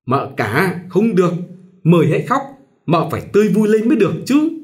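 sweet on top, anger just held down; sweet with hidden anger. A narrator's reading. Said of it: "nén sự tức giận, ngọt ngào".

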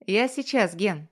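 shouting over music. Acted. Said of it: "кричу парню в ухо".

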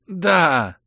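muffled yes through a gag; gagged. Acted. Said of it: "замычал Саид сквозь кляп".

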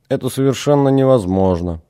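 monotone, like a wind-up doll; mechanical doll voice. Acted. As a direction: say it flat like a machine. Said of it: "монотонно, как механическая кукла".

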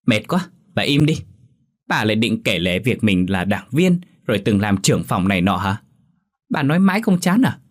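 acted fed-up daughter, pitch jumping; mildly exasperated retort; irritated backtalk. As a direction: cut the nagging off, voice climbing at the end. Daughter snaps back at nagging mother.

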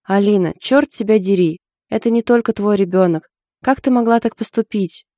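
a sister's angry telling-off; angry scolding. Acted. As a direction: scold your sister hard.

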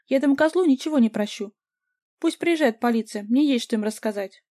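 high, loud vengeful yelling; furious shouting. A narrator's reading. Vika yells that she will forgive her ex nothing, loud. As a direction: yell it, unforgiving. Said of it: "закричала Вика".

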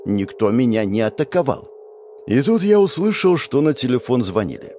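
ordinary delivery, nothing marked

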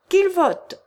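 loud, high rallying cry; many voices shouting together; crowd shout. Acted. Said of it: "s'écrièrent une foule de voix".

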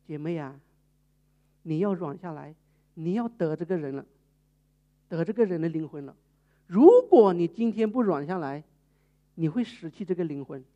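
calm her down kindly; gentle counsel. Retold or imitated. (牧师温和地劝导)

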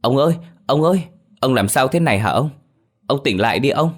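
high, loud, fast panicked calling; crying out. Acted. Boy calling his unconscious grandfather, panicked. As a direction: shake him awake, calling in alarm. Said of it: "Nó vội chạy lại kêu lên".

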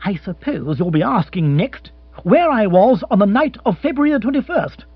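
sarcastic outburst at a prying partner; rant gathering momentum. Acted. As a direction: build up steam and tell her off. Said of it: "gathering momentum".

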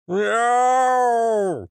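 high drawn-out cat yowl; yowling cat meow. Acted. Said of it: "заорал кошак".

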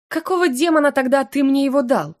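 flustered angry question; indignant. Acted. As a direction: scold him in outrage. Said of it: "продолжила возмущаться".

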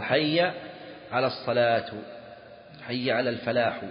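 الصلاة and الفلاح ending in u; measured call, الفلاح closed on "-hu"; wrong nominative -u on الصلاة and الفلاح; grammar-slip demo. Shown as a demonstration. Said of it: "لحن، لكن لا يحيل".

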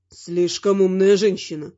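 a demon grumbling in displeasure; displeased demon. A narrator's reading. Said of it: "недовольно заявил он". (недовольный низкий голос демона)

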